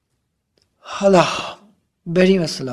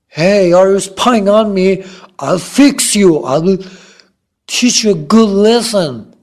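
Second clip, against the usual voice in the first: threatening; 3 semitones higher, 5 dB louder, much slower than usual. Acted. Acted threat to someone spying.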